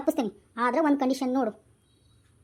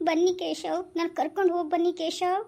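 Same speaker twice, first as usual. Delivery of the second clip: acted crying; 2 semitones higher, slower than usual. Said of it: "ಅಕ್ಕ ಎಷ್ಟ್ ಅಳ್ತಾ ಇದ್ದಾಳೆ".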